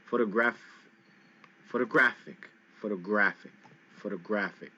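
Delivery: photographic with GRA hit hard, photo-GRA-phic; stress on GRA. Shown as a demonstration. Teacher drilling photographic for students, GRA stressed. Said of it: "Here the G R is hit hard".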